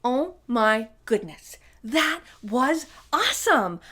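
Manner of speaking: excited teacher praise; delighted praise. Real, not acted. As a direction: gush over how loud they were. Teacher reacting to kids' shout.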